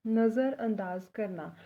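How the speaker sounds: careful teacher pronunciation; slow model word. Shown as a demonstration. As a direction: slowly sound out नज़रअंदाज करना. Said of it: "Punjabi में बोलते हैं नज़रअंदाज करना".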